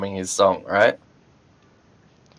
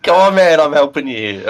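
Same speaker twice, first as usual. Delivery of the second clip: exasperated protest; 6 semitones higher, 5 dB louder than usual. Real, not acted. Player protests at other player.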